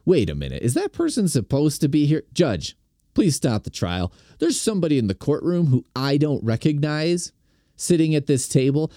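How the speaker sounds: mock-indignant objection, rising in pitch; mock alarm. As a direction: play a juror urgently halting the trial. Acts out objecting to the judge.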